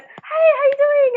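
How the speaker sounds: drawn-out high mock hello from a guy; Tim's greeting. Castmate Tim greets the new girl, slow high mock hello. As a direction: imitate him greeting her slowly and brightly.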